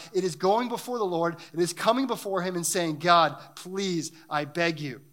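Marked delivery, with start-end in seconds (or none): 3.0-5.0 acted begging to God with weighty words; understated crying out to God; pleading prayer. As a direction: plead earnestly, stretching out the key words. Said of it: "When we cry out to God".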